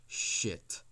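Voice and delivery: a voiceless gasp of dread; whispered curse. Retold or imitated. Son caught smoking by his dad, whispering his dismay.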